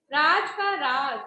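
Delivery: teacher reading a word pair slowly; slow demo of two words. Shown as a demonstration. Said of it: "राज और राज को बोलकर देखो".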